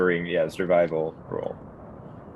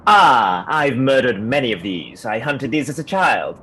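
loud, higher boastful yell; 6 semitones higher, 8 dB louder than usual. Acted. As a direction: yell out a proud war boast. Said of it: "So I just yell out".

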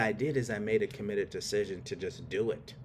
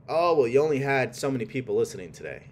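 doubting inner voice; 5 dB louder than usual. Retold or imitated. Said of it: "It's a loud voice trying to stop you".

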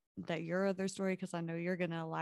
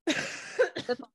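chesty cough; 8 semitones higher, 6 dB louder than usual. Real, not acted. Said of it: "I can't stop coughing".

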